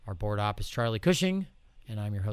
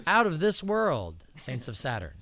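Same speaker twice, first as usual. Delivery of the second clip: hammed-up slogan; 4 semitones higher, 3 dB louder than usual. Real, not acted.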